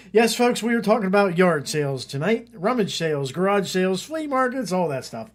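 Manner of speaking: high, loud grand showman voice; grandiose flea circus showman. Acted. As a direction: sell it like a ringmaster. Hosting, introducing his buddy Jeff.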